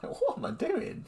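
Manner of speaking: high, slow bewildered question; baffled. Retold or imitated. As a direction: question yourself in amused disbelief. Acted baffled reaction while making tea.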